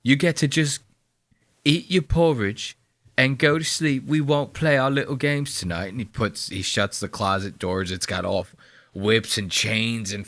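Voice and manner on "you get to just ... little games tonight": lightly voiced menacing husband; mock creepy husband. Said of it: "He's like".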